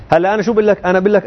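normal talking voice

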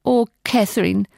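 ein Hauch von Kummer im Ruf; leicht bekümmert, nicht laut; traurig. A narrator's reading. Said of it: "rief ich traurig". (mildes trauriges Rufen)

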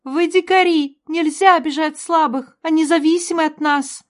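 high, loud furious scolding; angry scolding. A narrator's reading. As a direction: tear into them. Sister scolds the men. (возмущённая отповедь)

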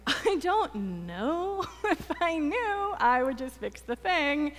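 exasperated patient, stretching the words upward; retold exasperation. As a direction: act out being comically clueless. Retelling exasperated reply to her counselor.

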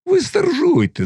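high-pitched Cossack outcry; crowd calling out. A narrator's reading. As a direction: call it out high over the crowd. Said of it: "загукали запорожці".

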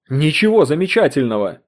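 loud, snapping retort; barked. Acted. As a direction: bark it down at her. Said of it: "рявкнул Поттерли". (рявкнуть громко и зло)

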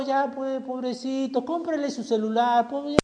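high, soft, pitying mock-parent voice; indulgent parent. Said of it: "A veces padres ven a su hijo". (padre consentidor con voz aguda y compasiva, imitado)

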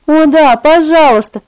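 put-on a girl's tender eager cry. A narrator's reading. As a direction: call out sweetly and eagerly. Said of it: "кричала Сибил своим более глубоким и более нежным голоском".

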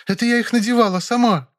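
high, frightened maid. Acted. Maid begs him not to call the police, frightened and high. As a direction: beg in a high scared voice.

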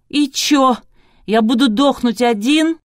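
high, loud, reckless outburst; devil-may-care shout. A narrator's reading. Infected lighting man refuses to die alone, shouting recklessly. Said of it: "разудало выкрикнул".

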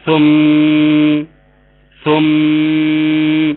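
ثم held on a long humming م; nasal ghunna. Shown as a demonstration. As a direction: stop on ثم and let the م hum. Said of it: "هنقف عليها بالغنة". (ثم بغنة واضحة)

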